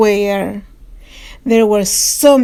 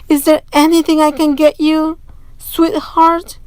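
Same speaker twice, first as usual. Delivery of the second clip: higher, quick and gentle; caring father; 5 semitones higher than usual. Acted. Father tries to cheer up Camila, higher and gentle.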